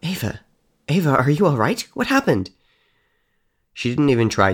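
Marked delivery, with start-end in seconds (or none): 0.0-2.5 higher anxious calling; a mother rushing to her daughter; worried parent. Acted. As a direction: call out in alarm for the child. Parents finding Ava, worried.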